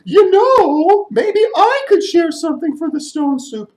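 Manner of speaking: high, loud sniffing excitement; excited elephant. Acted. Elephant smelling the soup, loud and eager.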